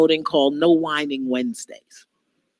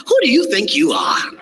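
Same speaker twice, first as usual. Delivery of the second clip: mock challenge. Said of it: "I love that one".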